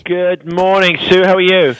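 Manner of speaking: phone-line voice; over a landline phone. Real, not acted. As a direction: sounds like a call on a landline. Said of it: "I'm actually calling you from a landline".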